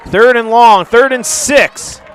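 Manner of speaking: loud, stretched-out call; rally the crowd for the big down; shouted down call. Real, not acted. Announcer pumping up the crowd on a big third down, shouting.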